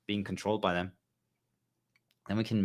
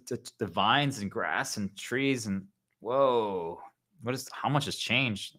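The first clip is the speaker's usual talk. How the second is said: hushed amazed voice; awed wonder. Pretend. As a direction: stare around in awe. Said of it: "we go outside and we're like".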